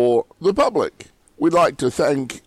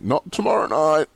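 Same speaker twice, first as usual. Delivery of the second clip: "tomorrow" pitched high and hit hard; stress on tomorrow; 6 semitones higher, faster than usual. Real, not acted. Correcting the meeting date.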